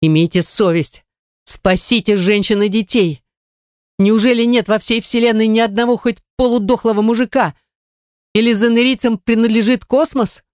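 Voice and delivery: indignant appeal rising high, without full volume; angry, pained yelling. A narrator's reading. Vlada berates the silent universe, angry and pained. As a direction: demand help, pitch climbing in outrage. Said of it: "Я орала от злости и от сильной боли".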